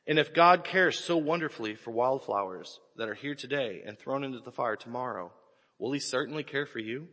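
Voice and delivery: steady measured Bible reading; scripture reading. Acted. Preacher reading Matthew to the church, measured. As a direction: read the verses to the congregation.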